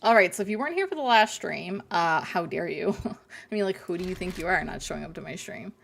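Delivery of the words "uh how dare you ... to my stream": sarcastic. Pretend. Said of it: "Hope you can sense my sarcasm".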